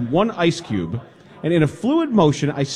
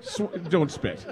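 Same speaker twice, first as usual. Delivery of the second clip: laughing; 4 semitones higher than usual. Real, not acted. Host still laughing.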